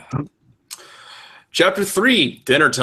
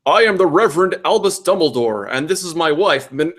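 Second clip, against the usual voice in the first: lightly voiced preacher, pitched up; amicable reverend; 6 semitones higher, 5 dB louder than usual. Reverend introducing himself to a new pupil, amicable. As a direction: introduce yourself grandly as the reverend.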